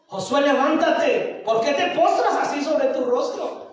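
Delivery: lightly voiced divine order, then questioning; God's rebuke. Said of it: "Y el Señor le dice". (reproche divino, sin agravar la voz)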